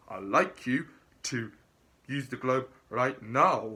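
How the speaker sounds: imitating a Scottish interviewer giving an order; mock Scottish boss, pressed out loud; Scottish accent. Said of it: "what Scottish accent".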